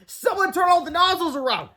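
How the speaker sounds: very high frantic call; panicked plea. A narrator's reading. Madison pleading with the crowd, high and frantic. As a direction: beg the crowd for help. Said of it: "she cried".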